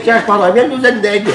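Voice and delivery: imagined shop order. Retold or imitated. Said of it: "Tu me vois, moi, demain".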